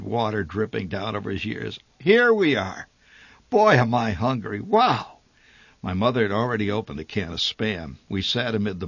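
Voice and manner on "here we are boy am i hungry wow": grinning father. A narrator's reading. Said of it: "He grinned".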